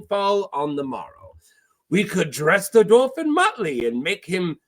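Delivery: put-on theatrical accented pirate with swooping pitch; flamboyant pirate, scheming. Pirate urges Davos to strike the city, accented and grandiose. Voices Salladhor's dialogue.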